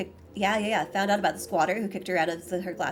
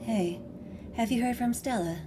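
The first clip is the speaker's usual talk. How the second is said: softer voice with a light southern twang; Kanika's southern twang; 5 dB quieter than usual. Acted. Texting about missing Stella, light southern twang. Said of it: "deeper with, like, a little bit of a southern twang".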